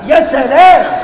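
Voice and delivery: laughing sarcasm. Acted.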